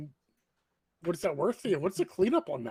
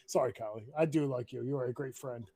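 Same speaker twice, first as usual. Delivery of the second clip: low, soft heartfelt tone; sincere apology; 7 semitones lower, 7 dB quieter than usual. Real, not acted. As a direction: quietly reassure a friend. Apologising affectionately to a friend.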